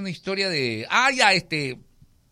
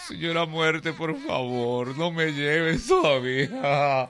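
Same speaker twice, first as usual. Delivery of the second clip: mock crying plea; 4 semitones higher, slower than usual. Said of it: "Empezó a llorar el campesino".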